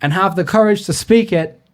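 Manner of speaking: lightly put-on Irish accent, Conor McGregor style. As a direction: quote it in a mild Irish brogue. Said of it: "can you do an Irish accent".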